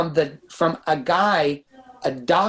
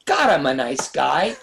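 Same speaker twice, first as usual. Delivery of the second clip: slow, laughing mock exclamation; self-mocking thought; 3 semitones lower than usual. Director mocks his own past thought, laughing. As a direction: send up his own smugness with a laughing burst. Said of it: "And I literally had the thought".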